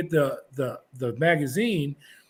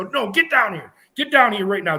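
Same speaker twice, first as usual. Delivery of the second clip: retold firm order; 4 semitones higher, 4 dB louder than usual. Guard ordering Charlie back down.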